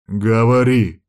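loud demand to speak; yelled command. Acted. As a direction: shout her into confessing. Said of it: "заорал он".

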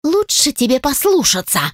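menacing growl. A narrator's reading. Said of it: "не менее грозно прорычала".

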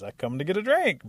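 loud, high, insistent retort; defiant protest. Acted. Rabbit defending his place in line, defiant. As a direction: argue your right to drink. Rabbit argues back at animals.

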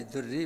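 دري with first vowel i, as dirri; i after the d. Shown as a demonstration. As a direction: say دري with a kasra on the d. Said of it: "بكسر الدال". (دري بكسر الدال)

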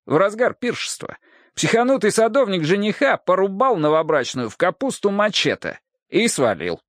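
brash gossiping cop. Acted. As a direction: savor the scandal. Hardwick tells the case. (смакуя сплетню, развязно)

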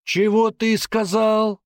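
slow, high and loud "Чего ты сказал"; menacing question. Acted. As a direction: dare him to say it again. Sergeant confronts cheeky teen.

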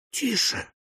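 high, soft warning hush; soft ladylike whisper. A narrator's reading. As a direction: hush him urgently under your breath. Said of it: "шепнула леди".

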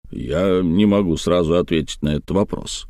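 low, hedging reply; evasive. Acted. Good-natured friend avoiding the uncle's question, evasive. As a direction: gently dodge the question. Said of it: "уклончиво сказал добряк Тригомен".

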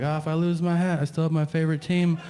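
mock cholo boasting about his tattoo; imitating a cholo. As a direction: play the proud gangbanger. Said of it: "So it's like".

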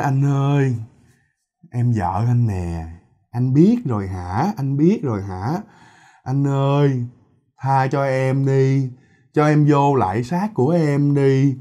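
slow, drawn-out ghostly pleading; pleading wife. Acted. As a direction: beg your husband in long, wailing words. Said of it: "cổ dở cái giọng ra để mà năn nỉ". (giọng vợ năn nỉ kéo dài)

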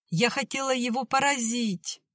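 clearly, through tears. A narrator's reading. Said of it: "внятно произнесла Оля".

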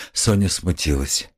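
ordinary delivery, nothing marked

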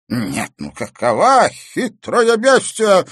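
put-on old man exclaiming about the cunning woman. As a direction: burst out in outraged disbelief. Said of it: "воскликнул Ипполит Германович".

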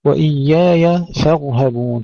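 slow recitation, F light, R heavy, H light in فارهبون. Shown as a demonstration. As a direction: recite فارهبون with thin F and thick R. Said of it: "ترقيق الفاء وتفخيم الراء".

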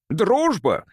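high-pitched, dismissive exclamation; mildly snorted retort; scornful snort. A narrator's reading. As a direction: throw the word back with scorn. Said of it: "фыркнул Гилмен".

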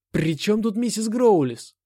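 loud, high, slow furious yell; angry shout. A narrator's reading. Narrator yells at Anna in anger, loud and high. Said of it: "зло крикнул я".

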